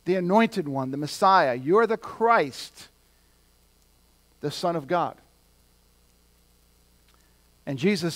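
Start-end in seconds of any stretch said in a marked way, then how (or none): 0.0-5.2 slow, raised-pitch declaration; retold outburst, proclaimed without screaming; mock cry of revelation. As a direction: proclaim it as Peter's sudden revelation. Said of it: "Peter screams out".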